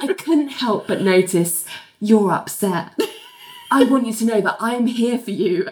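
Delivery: measured, patronising mock comfort; talking to small child. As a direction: soothe them as if they were a small child. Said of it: "like you're talking to a small child".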